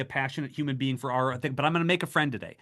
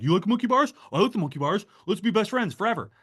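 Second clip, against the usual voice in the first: put-on child's voice; 6 semitones higher, faster than usual.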